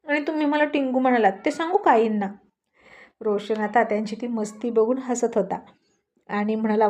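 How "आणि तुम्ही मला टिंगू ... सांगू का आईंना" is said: quick, higher, nervous comeback; flustered counter-threat. Acted. Rani, scared of the mother-in-law, rushes a nervous counter-threat. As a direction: rush it out, scared but hitting back. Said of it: "तशी राणी घाबरली".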